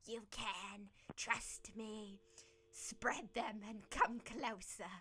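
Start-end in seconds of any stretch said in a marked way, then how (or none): 2.7-4.9 drawn-out slow urging; slow coaxing. Acted. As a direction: lure him in, very slowly. Fungus coaxing.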